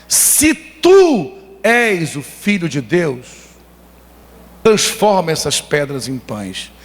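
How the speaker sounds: very slow, drawn-out tempting voice; Satan tempting. Retold or imitated. Satan tempting Jesus in the desert, slow and drawn out. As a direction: lure him slowly with doubt. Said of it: "Satanás fala para Jesus".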